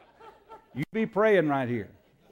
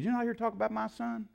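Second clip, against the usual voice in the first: incredulous question; 8 semitones higher, 4 dB quieter, faster than usual. Retold or imitated. Man surprised by the answer.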